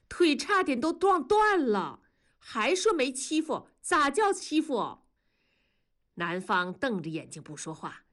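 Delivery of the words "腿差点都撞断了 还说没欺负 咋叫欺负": lightly voiced grumbling grandmother, higher; grumbling grandma. A narrator's reading. Grandmother grumbling over the boy's knee. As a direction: mutter and complain like an old granny. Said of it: "叨咕着说".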